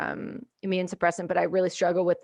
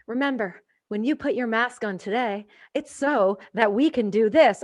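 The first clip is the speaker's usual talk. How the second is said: lightly imitated public health ad; a hint of a smiling ad spokeswoman; smiling commercial voice. Woman in a health commercial reminding viewers, mock smiling ad voice. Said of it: "she smiles, and she goes".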